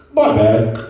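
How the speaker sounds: low, loud offhand apology; lightly voiced pilot. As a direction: own up casually over the intercom. Pilot on mic after drop.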